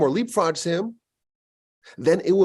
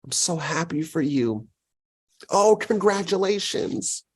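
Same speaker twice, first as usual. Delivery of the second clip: put-on happiness; 3 semitones higher than usual. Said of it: "externally project happiness".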